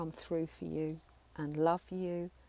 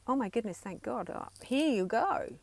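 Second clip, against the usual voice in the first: relieved; 4 semitones higher than usual. Retold or imitated. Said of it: "the child might say".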